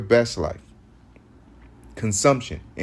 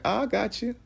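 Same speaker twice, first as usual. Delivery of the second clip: government voice; 9 semitones higher, 6 dB quieter than usual. Retold or imitated. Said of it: "The government".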